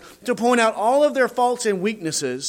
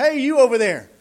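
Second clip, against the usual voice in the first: smug busybody; 3 semitones higher, faster than usual. Retold or imitated. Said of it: "he comes and says".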